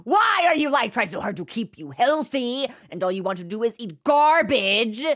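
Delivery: half-mock exasperated scolding of the cat. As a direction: scold the cat, hammed-up frustration. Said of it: "And I'm just like".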